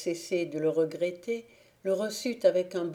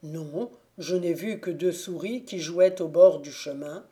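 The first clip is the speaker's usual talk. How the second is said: squire's voice; 5 dB louder than usual. Acted. Squire reports to the fairy.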